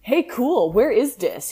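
put-on whiny emo teen; lightly voiced mopey emo boy. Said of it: "he asked in an emo voice".

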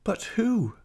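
high, bewildered plea; high-voiced anguished wife; distraught question. A narrator's reading. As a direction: ask it pleadingly, pitched high.

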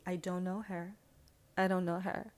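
lightly put-on diva dismissal; coolly disown her, a hint of diva; pop diva impression. Old schoolmates disowning her, light diva impression. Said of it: "pop diva voice".

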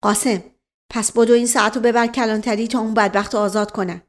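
quick, urgent order to a servant; hasty master's command; hurried instruction. Acted. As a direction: rush him off on an errand. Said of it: "با عجله گفت".

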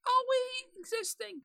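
very high squeaky ferret voice. Pretend. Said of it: "speak in the ferret voice".

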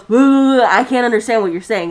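mildly loud mock blurt; a hint of a griping old customer; imitated old man. Old man complaining to the cashier, mock griping. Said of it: "he goes".

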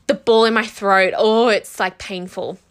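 fighting back tears as she speaks; telling viewers how painful it felt, choking up; choked up. Real, not acted. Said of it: "I think you can tell in my voice".

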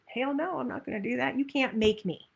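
a light hint of a stubborn two-year-old; defiant toddler. Coach voicing the inner two-year-old refusing, mildly defiant. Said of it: "inner two-year-old".

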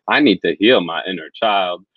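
put-on high, slow, small child's plea; pleading inner child. Talking about his inner child, a child's high pleading voice. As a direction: beg like a frightened little boy.

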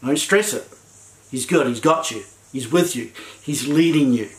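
calm the frightened people gently. Retold or imitated. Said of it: "We need to be the voice of".

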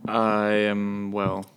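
groggy, slow just-woke-up voice; morning voice. Real, not acted. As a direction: still waking up, voice not warmed up. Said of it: "you've got morning voice".

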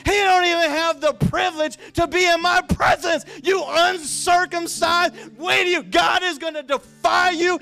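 loud, high preacher's rant as a challenger; defiant taunt. Acted. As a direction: belt it out, building into a shouted threat. Acting David's defiant taunt of Goliath.

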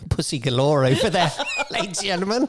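laughing announcement. Pretend. Announcing guests jokingly.

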